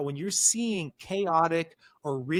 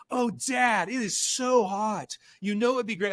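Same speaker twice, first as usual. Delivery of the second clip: higher, slow, theatrical "so hot"; hammed-up kid; 5 semitones higher than usual. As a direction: overact the heat for laughs. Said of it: "let her ham it up".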